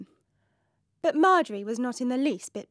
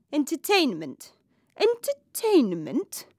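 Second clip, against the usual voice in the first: incredulous repeat; 4 semitones higher, slower than usual. Acted.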